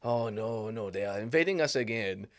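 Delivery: put-on dodgy French accent, could pass for Scottish; attempted French accent. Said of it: "the French would say".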